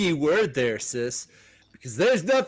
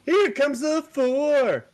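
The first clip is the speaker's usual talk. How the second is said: dramatic announcer; 10 semitones higher, slower than usual. Acted. Dramatic comic intro announcement.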